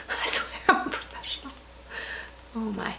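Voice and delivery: soft embarrassed laugh through the words; breathy chuckle while admitting the fumble. Real, not acted. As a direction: laugh it off, a bit sheepish.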